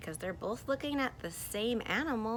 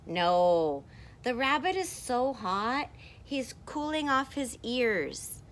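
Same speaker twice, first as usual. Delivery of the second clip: louder, higher storybook voice; emphatic contradiction; 4 semitones higher, 5 dB louder than usual. Acted. Second character insisting it's a hot rabbit, loud contradiction. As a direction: object loudly, then explain emphatically.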